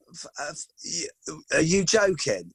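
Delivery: stunned stammering disbelief, slow; gobsmacked fan stuttering at his idol; starstruck stammer. Retold or imitated. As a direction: trip over the words, too awestruck to speak. Starstruck meeting his hero Pep.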